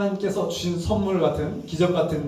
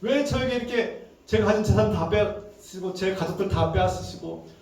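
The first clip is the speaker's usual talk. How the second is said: acted aggrieved protest, high then easing down; angry reproach; 3 semitones higher than usual. Job demanding answers from God for his losses, mildly angry retold reproach. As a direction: plead and accuse in a retold voice, higher at first. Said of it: "욥이 하나님께 막 화를 내는 겁니다".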